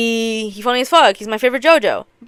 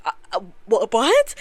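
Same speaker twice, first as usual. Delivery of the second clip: acted freak-out. Gambler rattled by the bet, imitated freak-out. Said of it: "freaking the fuck out".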